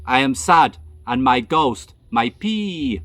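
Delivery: telling the night manager a ghost tale in calm broken English; calm melodious broken English. Retold or imitated. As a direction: lull him like a prayer in pidgin English. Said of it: "in a very calm, melodious voice".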